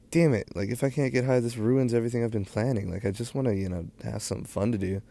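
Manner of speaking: retelling his own panic, voice shooting up; freaking out. Retold or imitated. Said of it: "And so I'm freaking out".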